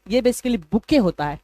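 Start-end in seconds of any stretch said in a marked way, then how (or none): 0.7-1.0 बुके said with the final t silent, rhyming with "ke". Shown as a demonstration. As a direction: say बुके as bu-ke, no t at the end. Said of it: "टी को silent किया जाता है". (बुके में टी silent, बु-के बोलो)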